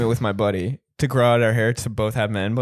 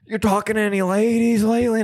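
raised movie-star voice; higher, put-on actor voice; Nicolas Cage impression; 6 semitones higher than usual. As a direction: imitate the bar guy prying. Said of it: "sounds like Nicolas Cage".

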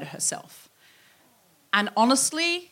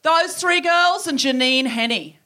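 teacher's announcement; 4 semitones higher, 5 dB louder, slower than usual. Acted. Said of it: "back to us, and went".

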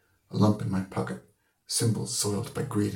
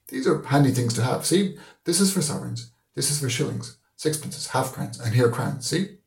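put-on higher, louder showing-off old man; fussy old Deasy; 5 semitones higher, 3 dB louder than usual. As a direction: proudly show off the savings box. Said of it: "Mister Deasy said".

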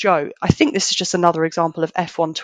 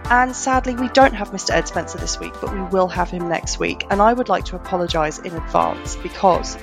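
hoarse from being unwell; rough, croaky sick voice; gravelly voice. Real, not acted. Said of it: "my very gravelly, sexy voice".

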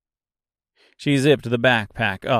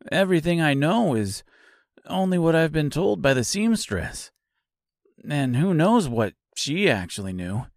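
lightly voiced scarecrow; 3 semitones higher than usual.

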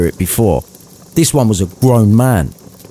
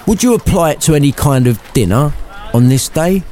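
Scrooge asking; 5 semitones higher than usual. Acted. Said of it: "asked Scrooge of the spirit".

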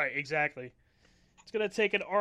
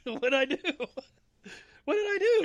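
mock panic; 8 semitones higher, 4 dB louder than usual.

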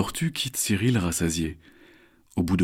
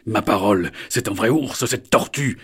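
pained, astonished shout; cry out; 2 semitones higher, 5 dB louder than usual. Acted. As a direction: yelp in disbelief. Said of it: "s'écrie Alistair".

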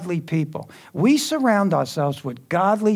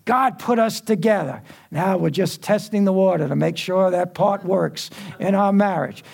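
insisting in a slightly raised voice; mock adamant; 3 semitones higher than usual. Preacher voices unmarried couples justifying themselves, mildly mock-adamant. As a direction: mimic someone swearing up and down. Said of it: "they'll swear up and down".

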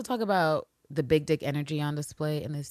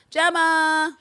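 excited exclaim; 11 semitones higher, 8 dB louder than usual. Real, not acted. Exclaims character name.

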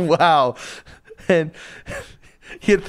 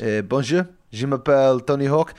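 French as Tony Hawk; 2 semitones higher than usual. Acted. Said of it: "speaking back to the bouncer in fluent French".

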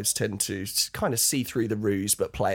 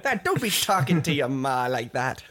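joking pirate scold; 3 semitones higher than usual. Retold or imitated.

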